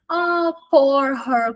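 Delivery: slow, drawn-out theatrical sympathy; mock pity. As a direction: pity her over the top, slowly. Teacher pities the woman mockingly. (pena exagerada e arrastada)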